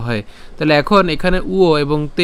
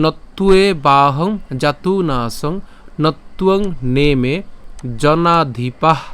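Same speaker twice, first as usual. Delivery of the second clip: slow, measured shloka chant; Sanskrit verse recitation; much slower than usual. Shown as a demonstration. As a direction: draw out each long vowel as you recite.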